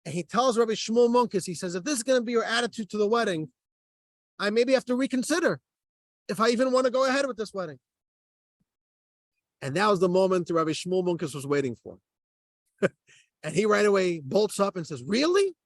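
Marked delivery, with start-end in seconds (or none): 1.8-7.8 mildly indignant retold threat, higher and quick; acted huffiness, pitched up; retold screaming. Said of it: "And he's screaming at him". 15.0-15.6 high, rising incredulous question; pitched-up feigned surprise; mock disbelief. Acted rabbi springs up in disbelief.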